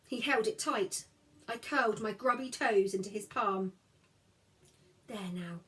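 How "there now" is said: softer, hushed comfort; whisper. A narrator's reading. Brother soothing his crying sister, hushed. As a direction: hush her gently. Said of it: "Jem whispered".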